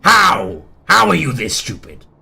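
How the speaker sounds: loud, incredulous acted outburst; exasperated berating. First gate berates the other gate, loudly exasperated. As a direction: shout it in despair at their stupidity.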